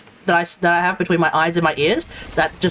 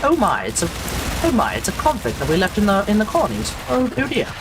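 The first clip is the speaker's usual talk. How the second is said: hammed-up pompous British voice, swooping pitch; pompous British accent. Streamer plays a Brit dismayed at the colonial convict, pompous mock-British accent. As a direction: play a stuffy, disappointed Brit, badly faked. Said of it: "I just try to act all pompous".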